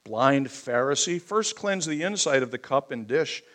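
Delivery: firm, emphatic reading of a rebuke; forceful scripture preaching. Acted. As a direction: press the scripture home.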